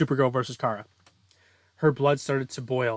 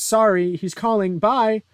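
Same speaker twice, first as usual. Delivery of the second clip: higher, louder rushed apology; hurried sign-off; 8 semitones higher, 8 dB louder than usual. Acted. Kara hastily ending a call with her girlfriend, hurried and louder. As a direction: blurt a hasty goodbye.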